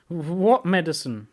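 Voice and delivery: slow, high, loud stammered question; alarmed stammer. A narrator's reading. Piglet hearing about medicine, alarmed stammer.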